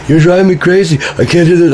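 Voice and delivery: high-pitched imitation of an exasperated mother; mom freaking out. Son imitating mom leaving the fight, high exasperated voice.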